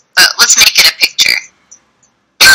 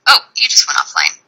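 whisper; 5 dB quieter than usual. Real, not acted. The call drops.

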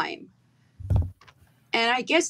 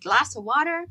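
American accent; 2 semitones higher than usual. Shown as a demonstration. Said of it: "You throw that accent so well".

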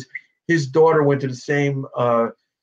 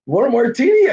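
father's voice; 10 semitones higher, 5 dB louder than usual. Retold or imitated. Father offering drink, voiced.

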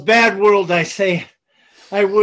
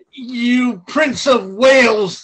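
angry; slower than usual. Acted. Falstaff railing at the prince.

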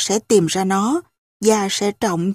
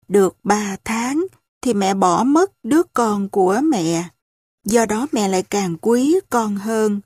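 usual speaking voice

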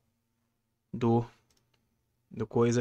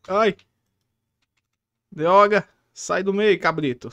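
exclamações altas e agudas em pânico; being chased; 6 semitones higher, 6 dB louder, slower than usual. Real, not acted. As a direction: grita enquanto foge do bicho. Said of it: "ele tá vindo atrás de mim". (sendo perseguido, gritando)

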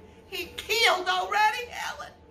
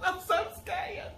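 laughing scared; 4 dB quieter, slower than usual. Acted.

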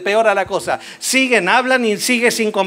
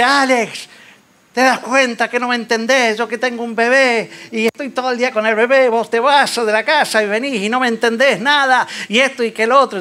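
queja de la esposa. Retold or imitated. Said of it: "viene y dice".

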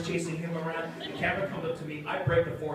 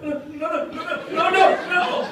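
mock pleading; 12 semitones higher, 7 dB louder than usual. Neelix cornered and begging.

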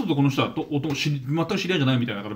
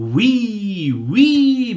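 high, loud, drawn-out party-bro "ウィー"; party-guy whoop; 9 semitones higher, 8 dB louder, much slower than usual. Retold or imitated. Mocking the flashy diners, a loud high whoop. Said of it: "ウィーみたいな奴ら".

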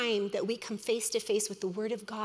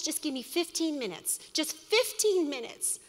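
gentle pleading; 5 semitones higher than usual. Pretend. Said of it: "Is he pleading with us".

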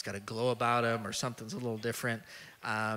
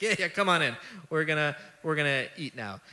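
laughing; 4 semitones higher, 3 dB louder than usual. Retold or imitated. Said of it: "And I just see him laughing".

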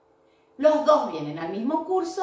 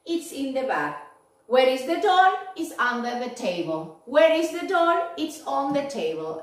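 asking and answering. Shown as a demonstration. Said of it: "pregunto y respondo solito".

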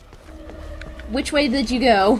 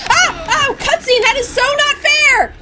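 high, slow outraged whine; indignant protest, much higher; frustrated whining; 13 semitones higher, 5 dB louder, slower than usual. Real, not acted. Grabbed during a cutscene.

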